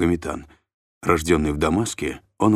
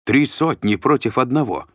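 higher, louder commanding shout; 7 semitones higher, 4 dB louder than usual. A narrator's reading. Shlom orders the guards to seize Mashek, shouting. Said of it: "закричал Бар Иоганн".

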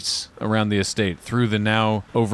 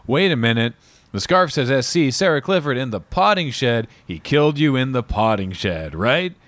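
impatient Magnum; 4 semitones higher than usual. Retold or imitated. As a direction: piece it together and lose patience. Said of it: "And he's like".

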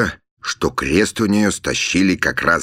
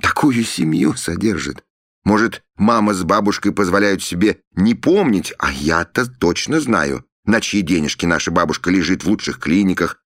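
indignant; 4 semitones higher than usual. Acted. Sister's indignant tirade about family money.

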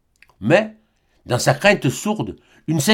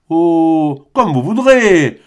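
laughing lightly; much slower than usual. Acted. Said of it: "reprit rieusement Jean Bernat".

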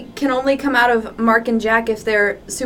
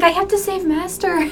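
melodramatic Jack; 8 semitones higher than usual. Retold or imitated. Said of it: "Jack's like".

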